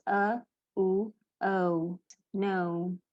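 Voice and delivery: teacher breaking down the gliding vowel of "No"; diphthong in two sounds. Shown as a demonstration. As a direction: split "O" into "uh" and "oo", then join it, as in "No". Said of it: "It's got two sounds".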